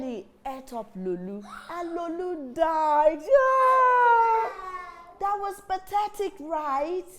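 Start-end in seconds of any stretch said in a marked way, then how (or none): 3.2-4.5 loud cry. Acted. Story climax exclamation.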